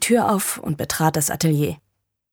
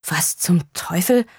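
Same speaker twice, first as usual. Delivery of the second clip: startled exclamation; slower than usual. Acted. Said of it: "begann er".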